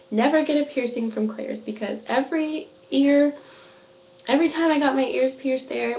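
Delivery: talking with a numb mouth; words softened by a numbed mouth. Real, not acted. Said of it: "my mouth is so numb right now".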